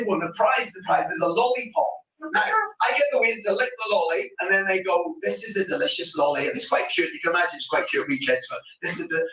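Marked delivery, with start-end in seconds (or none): 5.2-6.5 put-on sweet polite child. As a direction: say it sweetly like a well-behaved child. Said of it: "except with a wee lad from Glasgow".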